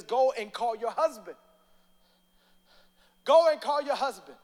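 lightly voiced solemn prophet; mock biblical prophet. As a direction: play the all-knowing seer, tongue in cheek. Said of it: "Sound like a real prophet".

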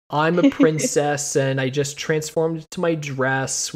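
slow, sing-song princess parody; mock princess. Princess introduces herself to a boring prince, mock dainty. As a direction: lightly send up a vapid princess. Mocking generic Barbie princess.

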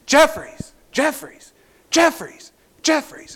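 high, loud repeated calls of the name; coach yelling name. Retold or imitated. Coach yelling at the small player from the sideline. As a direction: bellow his name across the practice field. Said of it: "He goes".

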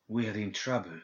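soft, hushed warning; whisper. A narrator's reading. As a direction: whisper it weakly to those close by. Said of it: "she whispered".

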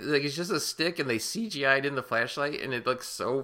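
high, loud incredulous rant about the fake light. Real, not acted. Friend mocking the movie's fake flashlight, incredulous. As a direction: rise up in disbelief at how bad it looks.

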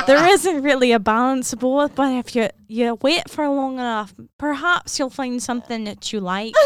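put-on Irish-accented sex hotline operator. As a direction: politely offer a menu in an Irish lilt. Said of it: "but I pick Irish accent".

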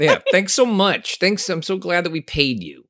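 sarcastic gratitude, laughing. Acted. Joking mock thanks to doc.

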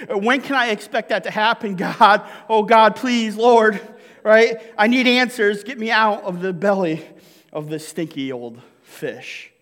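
a light imitation of a desperate, pushy prayer; half-joking demand on God; a hint of an impatient believer begging; mock whiny prayer. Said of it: "our prayer in this moment would sound something like this".

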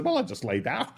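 laughing. Retold or imitated. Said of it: "I felt stupid".

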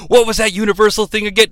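usual speaking voice

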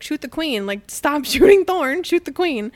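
urgent orders, half laughing; imitated yelling. Cinder yelling at Cress, mock yell. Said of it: "Cinder is yelling at Cress".

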